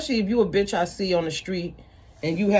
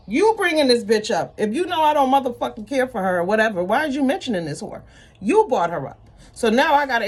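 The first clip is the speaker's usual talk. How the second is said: heated; 5 semitones higher, 4 dB louder than usual. Real, not acted. Heated rant at the woman.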